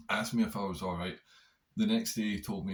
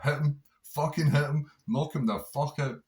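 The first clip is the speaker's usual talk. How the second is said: higher, louder goading inner voice; inner voice urging; 6 semitones higher, 6 dB louder than usual. Retold or imitated. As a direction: egg yourself on like a little devil on the shoulder. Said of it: "this wee voice popped up".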